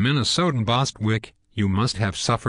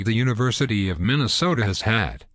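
had leaned on a little harder; gentle weight on had, the rest level; stress on had. Shown as a demonstration. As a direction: press the word had to say it is past. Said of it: "and I emphasize the word had".

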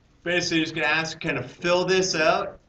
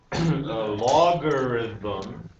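"logarithm" drawn out slowly; slow retry; 3 semitones lower, much slower than usual. Shown as a demonstration. Teacher retrying the term for the class, "logarithm" said slowly. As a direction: stretch out "logarithm" at half speed. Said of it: "maybe I have to say it slowly".

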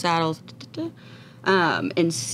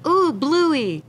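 put-on Australian accent; 11 semitones higher, 4 dB louder than usual. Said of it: "Australian accent".

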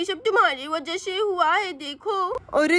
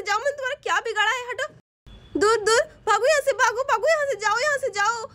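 higher, frantic shouts at the dog; scared cries for help; 3 semitones higher than usual. Acted. Siya fending off a biting dog, panicked. Woman attacked by dog, screaming.

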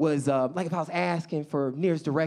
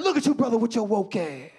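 put-on excited older man; 3 semitones higher than usual. Older Black man spotting him at Starbucks, excited. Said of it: "when they see me, they get excited".

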